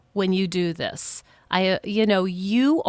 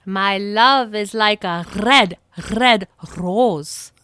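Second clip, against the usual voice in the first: Scottish accent. Shown as a demonstration. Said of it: "see if you can match the tone and sound of my voice".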